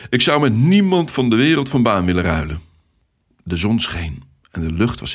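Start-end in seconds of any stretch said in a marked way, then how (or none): 0.1-2.6 louder, lively and energetic man; a hearty, upbeat traffic controller; cheerful Ted. Acted. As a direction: greet the new recruit with hearty enthusiasm.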